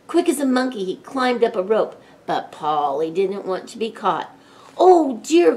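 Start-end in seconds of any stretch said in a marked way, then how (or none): 4.8-5.6 high, loud teacher's wail; flustered storybook cry; cried out in dismay. A narrator's reading. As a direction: exclaim loudly in alarm. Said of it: "cried Miss Cherry".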